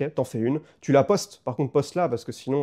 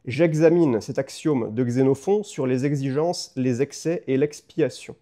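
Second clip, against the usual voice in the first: slow words around a pen in teeth. Shown as a demonstration. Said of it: "tu les répètes avec un stylo entre les dents".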